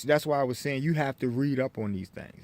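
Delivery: talking with something in mouth; words slurred round a mouthful; mouth full. Real, not acted. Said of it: "excuse me, I got something in my mouth".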